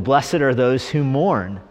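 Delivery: slow, measured verse reading; straight scripture reading. Acted. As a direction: quote the verse slowly and plainly.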